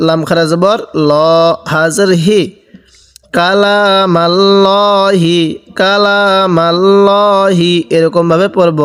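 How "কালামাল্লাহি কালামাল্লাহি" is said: কালামাল্লাহি with a heavy, thick lam, very slowly drawn out. Shown as a demonstration. Quran teacher shows the class কালামাল্লাহি with a thick, slow lam. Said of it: "লামটা আমরা মোটা করে পড়ব".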